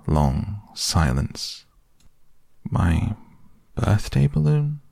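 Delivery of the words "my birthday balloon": stunned, disbelieving donkey; shocked question. A narrator's reading. Eeyore hears Piglet burst his gift, shocked. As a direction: pitch leaps high on balloon in dismay.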